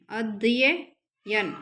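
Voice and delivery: अध्ययन broken up slowly as अध्-य-यन; drawn-out syllables. Shown as a demonstration. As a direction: stretch अध्ययन, sounding both य separately. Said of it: "दो बार यह आएगा इसमें". (अध्ययन को धीरे-धीरे तोड़कर, दोनों य के साथ)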